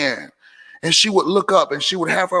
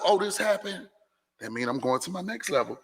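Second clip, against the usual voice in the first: self-talk demo; 11 dB quieter than usual. Shown as a demonstration. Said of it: "that's how I talk, talk to myself".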